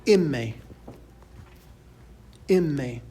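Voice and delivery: "imme" as "EM-meh", falling; Spanish letter name. Shown as a demonstration. Teacher modelling Spanish M for students, "imme" pronounced clearly. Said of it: "and that's pronounced".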